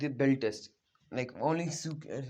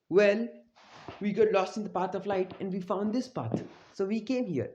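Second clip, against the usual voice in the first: high-pitched acted excuse; mock excuse; 5 semitones higher than usual. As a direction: give the excuse in a higher voice. Kakashi's excuse for being late, acted.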